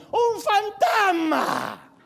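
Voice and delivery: high, slow, stretched-out scream of fright; drawn-out frightened shriek; terrified cry. Retold or imitated. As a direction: wail it like you've seen a ghost. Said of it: "relata que gritaron".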